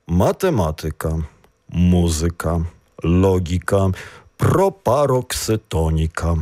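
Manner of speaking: "Математика, музика, логіка" each stressed on the third-last syllable; stress third from end. Shown as a demonstration. Teacher showing words ending in -ka, stress on third-last syllable. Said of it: "тобто на третій, е, склад від кінця".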